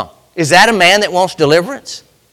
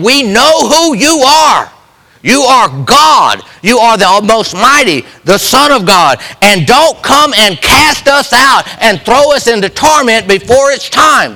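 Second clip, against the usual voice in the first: demons crying out; 4 semitones higher than usual. Retold or imitated. Preacher voicing demons crying out through the man, raised. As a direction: beg like a spirit afraid of torment. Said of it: "they're crying out of this man".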